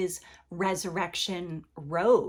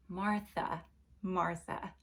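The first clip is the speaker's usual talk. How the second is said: gentle; 5 dB quieter, slower than usual. A narrator's reading. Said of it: "he's gentling her and calming her down".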